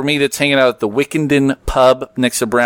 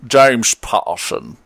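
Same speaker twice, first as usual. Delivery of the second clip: Sean Connery accent; 2 semitones lower, slower than usual. Shown as a demonstration. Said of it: "in your best Sean Connery accent".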